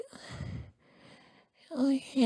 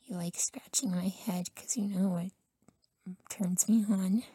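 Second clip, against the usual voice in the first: whisper. Acted. Boyfriend confides to partner in a close whisper. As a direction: hush every word as a secret.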